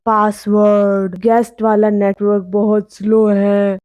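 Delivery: eerie but matter-of-fact demand; ghost voice. Acted. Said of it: "आवाज बोली". (हल्की भूतिया, खिंची आवाज़)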